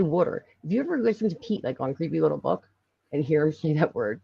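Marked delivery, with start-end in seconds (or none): 0.0-0.4 "water" in Philly speech, near "wooder". Shown as a demonstration. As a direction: say "water" the Philadelphia way, vowel toward "wood". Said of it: "we literally say water".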